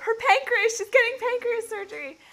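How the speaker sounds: high-pitched astonished report; amazed disbelief. Retold or imitated. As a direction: turn to a friend, amazed. Telling Josh the astonishing news.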